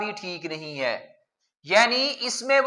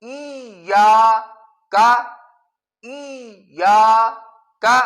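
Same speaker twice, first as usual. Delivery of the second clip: ای یا, a pause, then کا, split slowly; broken breath; 4 dB louder, much slower than usual. Shown as a demonstration. Teacher shows students the broken-breath mistake, slow. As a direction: stop after یا, take a breath, then say کا. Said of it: "کچھ لوگ یوں پڑھتے ہیں".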